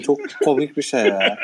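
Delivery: laughing while talking; after laughing hard. Real, not acted. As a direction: still chuckling. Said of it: "bayağı güldüm".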